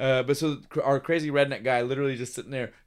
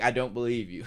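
lower, flatter I don't believe you, brushing it off; dismissive; 3 semitones lower than usual. Retold or imitated. Johnny's real meaning to the girl, lightly dismissive. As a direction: shrug the words off. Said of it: "essentially was like".

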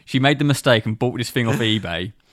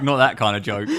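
laughing. Real, not acted. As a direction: giggle it out, the scold dropped. Repeat after mock telling-off.

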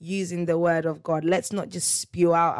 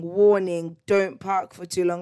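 mock warning sign; 5 dB louder than usual. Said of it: "massive signs in orange or yellow saying".

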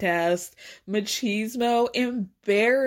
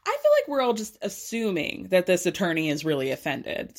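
slightly low, measured retold appeal; calming things down; 3 semitones lower than usual. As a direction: imitate someone calmly settling an argument. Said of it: "tries to calm things down".

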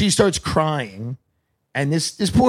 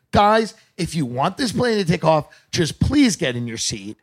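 mom-energy pilot; 4 semitones higher than usual. Retold or imitated. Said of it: "mom energy".

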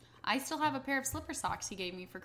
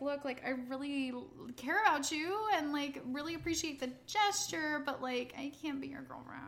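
gentle letdown; 5 semitones higher than usual. Retold or imitated. Retold gentle rejection phone call.

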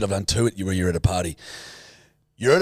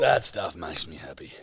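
whisper; 6 semitones lower, 7 dB quieter than usual. Real, not acted. Whispered aside.

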